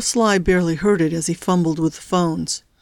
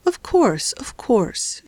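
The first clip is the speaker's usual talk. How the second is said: calm; 5 semitones higher, much slower than usual. A narrator's reading. Crazy lady agreeing with her son's kidnapper, calm. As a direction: say it calmly, starting higher and easing down. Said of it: "she said calmly".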